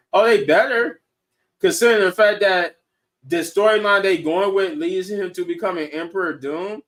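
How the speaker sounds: excited outburst. Real, not acted. Hyped about Doom's storyline.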